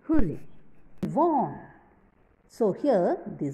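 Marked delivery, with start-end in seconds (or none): 0.1-1.6 joyful exclamation. Shown as a demonstration. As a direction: cheer it out like you just won. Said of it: "shows strong or sudden feelings".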